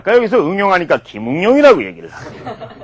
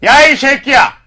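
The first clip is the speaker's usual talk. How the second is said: mock telling-off; 5 semitones higher than usual. Shown as a demonstration. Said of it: "바로 딱 뒤돌아서서".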